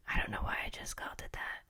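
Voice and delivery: quick whispered aside to herself. Real, not acted. Catching her own slip, a quick whispered aside. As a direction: mutter it under your breath.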